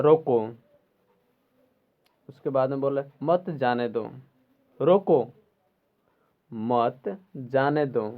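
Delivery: रोको as its own command, pause, मत जाने दो after it. Shown as a demonstration. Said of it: "पहले बोल जा रहा है".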